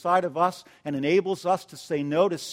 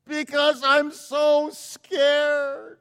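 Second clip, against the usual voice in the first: very slow, higher, tearful sob; crying; 6 semitones higher, much slower than usual. Retold or imitated. Shy Gail confessing fear to her pastor, sobbing. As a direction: choke it out while crying. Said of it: "she's crying".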